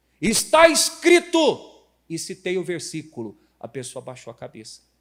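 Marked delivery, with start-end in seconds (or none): 0.2-1.8 voice raised, very loud and high. Retelling citing scripture to a brother in an argument, loud raised voice. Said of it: "eu levantei a voz, desse jeito aqui".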